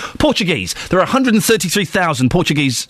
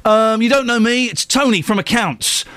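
higher-pitched, hesitant office colleague; mock chummy begging, pitched up; Tony from accounts; 7 semitones higher than usual. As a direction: mimic a sheepish charity email asking favours. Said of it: "The email goes round".

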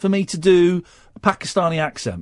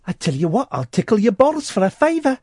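mock Geordie accent; 4 semitones higher than usual. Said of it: "A Japanese Geordie man".

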